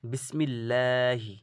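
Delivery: বিসমিল্লাহি slowly, thin light ল; recited light. Shown as a demonstration. A Quran teacher to students, reciting a light example. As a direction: chant বিসমিল্লাহি thin and slow. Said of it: "হালকা পাতলা".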